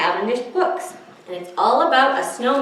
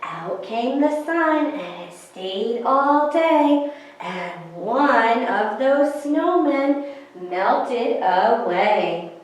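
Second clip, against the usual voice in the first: put-on lilting rhyme read to small children; sing-song counting rhyme; slower than usual. A narrator's reading. Librarian reciting a snowman rhyme to children, sing-song. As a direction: bounce the rhyme for the kids at storytime.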